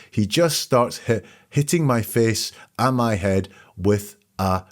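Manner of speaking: slight stutter on "hit"; stumbling over "hit, hitting". Retold or imitated. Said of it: "Little bit of a stutter there".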